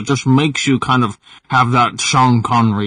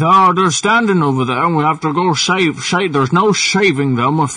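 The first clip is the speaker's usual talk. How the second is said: a hint of Sean Connery, raised pitch, tongue on the roof of the mouth; Sean Connery impression; 3 semitones higher than usual. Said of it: "wanna hear the Sean Connery?".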